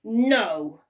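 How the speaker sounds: slow, drawn-out sneer; a hint of a sneering goblin. A narrator's reading. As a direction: sneer it like a spiteful imp. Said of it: "sneered the little man".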